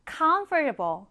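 comfortable read slowly, stress on COM; slow model reading. Shown as a demonstration. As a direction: spell it out slowly for the class. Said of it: "뒤에 able을 붙이게 되면".

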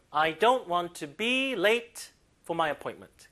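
slow, stressing move; slow model reading. Shown as a demonstration. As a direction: read it out slowly for students. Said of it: "강세 주세요".

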